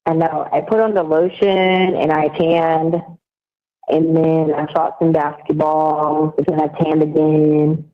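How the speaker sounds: slow Southern accent. Real, not acted. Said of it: "it's your southern accent".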